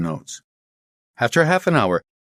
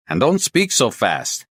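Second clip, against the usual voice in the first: slow, higher, emphatic words; slow and deliberate; 5 semitones higher than usual. Acted. Inspector asking the caller to slow down, deliberate. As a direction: space the words out for a bad line. Slowing down for bad line.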